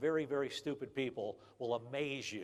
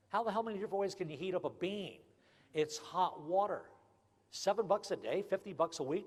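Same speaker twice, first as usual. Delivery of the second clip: exasperated rant; 6 semitones higher than usual. Real, not acted. Ranting about coffee price.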